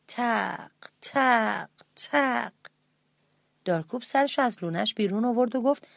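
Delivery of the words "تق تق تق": spaced, softly voiced knocks; gentle knocking sound. A narrator's reading. Narrator imitates the mouse's head tapping the tree, gentle knocks. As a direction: imitate slow, gentle thuds on wood. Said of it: "آروم آروم باز سرشو به درخت کوبید".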